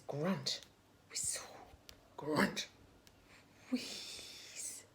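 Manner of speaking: soft whispered sound words; whispered noises. Acted. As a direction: whisper each noise like a secret. Reading the car's noises.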